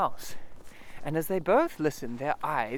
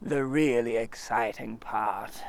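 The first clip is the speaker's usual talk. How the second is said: slow, mournful drawl; melancholy; 3 semitones lower, slower than usual. Acted. Eeyore telling Christopher Robin of his lost house, mournful. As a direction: sigh the words out sadly. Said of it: "in his most melancholy voice".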